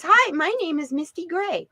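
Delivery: high cute kitty voice; a sweet little cat introducing herself; cat's voice. Retold or imitated. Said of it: "She says".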